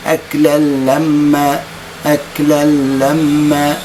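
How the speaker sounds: أكلا لما with the nun merged into a doubled lam. Shown as a demonstration. Teacher demonstrating full idgham, slow. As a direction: say أكلا لما as aklal-lamma. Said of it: "أنطق اللام مباشرة بدون نون".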